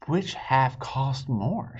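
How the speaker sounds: slow, whispered question; puzzled whisper. Acted. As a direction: whisper it slowly, genuinely puzzled. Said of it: "she said".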